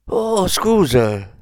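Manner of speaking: drawn-out, high mock apology; smug smile. A narrator's reading. Young man twisting Kleber's hand, smug fake apology. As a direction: stretch it slowly with a self-satisfied smile. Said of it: "sorrise compiaciuto".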